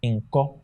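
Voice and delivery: "Inco" with O and U merged in one vowel; vowels as one sound. Shown as a demonstration. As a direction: say "Inco" with a single vowel, no diphthong. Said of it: "but as one sound".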